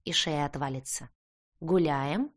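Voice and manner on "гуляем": taunting, muffled through a helmet visor; mocking from behind a visor. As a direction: tease from under the helmet. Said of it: "издевательски донеслось по ту сторону забрала".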